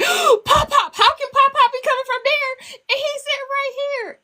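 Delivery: put-on high, amazed little girl voice; little granddaughter voice. Granddaughter puzzled at grandpa's voice on the speaker, high child voice.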